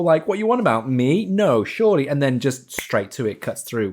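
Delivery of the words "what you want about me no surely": higher, louder incredulous mock Ross; mock flustered Ross. Reviewer imitating Ross's flustered denial, higher. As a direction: play Ross caught off guard and stammering. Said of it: "He's doing that whole".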